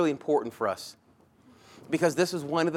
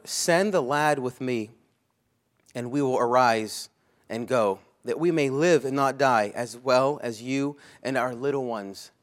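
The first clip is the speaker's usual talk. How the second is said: scripture reading. Acted. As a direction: read the plea steadily. Reads scripture.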